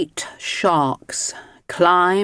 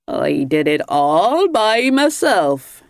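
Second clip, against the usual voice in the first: said proudly; 2 semitones higher, 3 dB louder, slower than usual. Acted. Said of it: "he said proudly".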